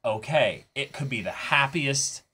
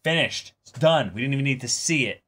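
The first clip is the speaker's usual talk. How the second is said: higher, louder, upbeat go-getter; a director rallying his cast, lightly excited; 4 semitones higher, 4 dB louder than usual. Retold or imitated. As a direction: pump the cast up, all business. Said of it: "And it's like".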